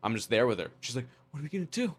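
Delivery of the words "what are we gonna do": softly squeaked fret; freaking-out bride. Retold or imitated. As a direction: imitate a bride fretting in a raised voice. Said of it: "if a bride's freaking out".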